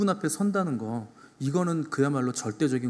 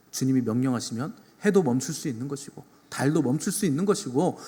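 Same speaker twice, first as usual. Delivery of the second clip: rebuking; 3 semitones higher, 6 dB louder than usual. Acted. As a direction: preach it as the Lord scolding his disciples. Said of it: "이렇게 꾸짖으시는 겁니다". (힘주어 꾸짖는 말투)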